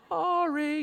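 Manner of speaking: high, drawn-out "sorry"; mock motherly threat. End of mom's threat, stretched.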